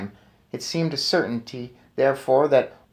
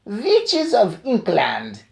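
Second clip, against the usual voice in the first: higher, slow drawn-out yell; witch's yell; 7 semitones higher, much slower than usual. Acted. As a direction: call the room to order, commanding. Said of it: "she yelled".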